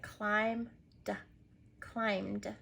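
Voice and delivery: "climbed" said with a clear d tacked on the end; climbed with D sound. Shown as a demonstration. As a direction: sound out "climbed" as one syllable ending in d. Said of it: "add the D sound to the end".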